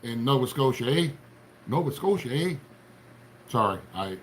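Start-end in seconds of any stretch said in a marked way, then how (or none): 0.0-2.5 Canadian accent, played up on eh; mock Canadian eh. Teasing Nova Scotia viewers in mock Canadian. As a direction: tease with a Canadian eh. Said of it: "That's not how all Canadians talk".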